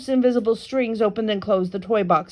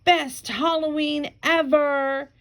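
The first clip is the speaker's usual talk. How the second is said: higher, slow cheerful call; excited shout; 5 semitones higher, slower than usual. Acted. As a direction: cheer it out, smiling. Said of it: "Frankie smiled and shouted".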